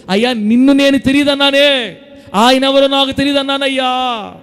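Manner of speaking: high-pitched lament in Peter's role; acted remorseful cry. Acting Peter's remorse at his denial. (పేతురు పశ్చాత్తాపాన్ని అభినయించే హెచ్చు స్వరం)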